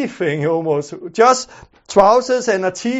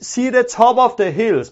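normal talking voice

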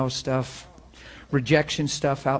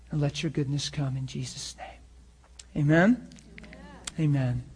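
earnest, measured prayer voice; closing prayer. Real, not acted. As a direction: lead the room in sincere prayer, pausing between phrases.

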